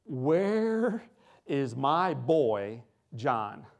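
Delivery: a loud, stretched-out father's call down the hall; father yelling. Retold or imitated. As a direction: call for your son, dragging out is my boy. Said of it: "He's yelling at some poor nurse".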